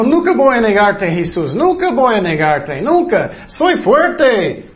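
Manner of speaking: hammed-up proud vow of loyalty; boastful vow. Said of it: "Él dijo". (promesa jactanciosa, más aguda)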